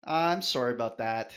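lightly played-up Canadian accent; overly Canadian. Shown as a demonstration. Guest obliging the host's request, overly Canadian. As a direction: apologize with a touch of Canadian accent. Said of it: "sound overly Canadian when you say it".

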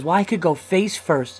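put-on show-off kid. Four-year-old showing off to the dad, mock bragging. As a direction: play a little kid showing off, drawn out. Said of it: "Now the kid wants to show off".

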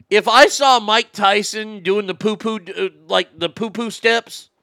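building excitement. Real, not acted. Comic telling cohost his toilet bit, excited build. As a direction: wind up the punchline eagerly.

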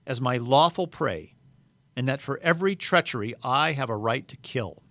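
a lightly voiced witch laying down the law; the White Witch, cold and proud. Witch to Aslan, demanding Edmund's blood, proud and cold. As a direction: claim the traitor as your prey.

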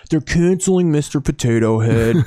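lightly mocking dumb right-wing guy; a hint of an outraged dimwit; dullard voice. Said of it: "Please do that voice again".

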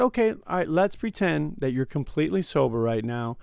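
mildly patronizing humoring; lightly condescending let's-pretend tone. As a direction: talk down to him, feigning patience. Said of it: "That's pretty condescending right there".

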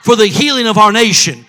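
rousing sermon, hammering each repeated question; full-force pulpit cry; impassioned preaching. Real, not acted. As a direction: preach it out to the whole congregation.

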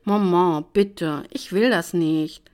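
Maman, bitte drawn out slowly, begging; a daughter begging her mother, slow pleading. Acted. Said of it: "flehte ich".

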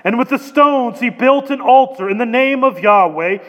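measured, emphatic public Bible reading; scripture reading. Acted. Preacher reads Elijah's challenge to congregation, measured scripture reading. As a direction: read the passage out deliberately, pausing between phrases.

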